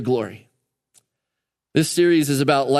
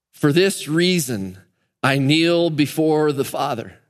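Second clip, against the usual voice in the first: slow solemn reading; slower than usual. Shown as a demonstration. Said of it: "Could, could you see him writing that?".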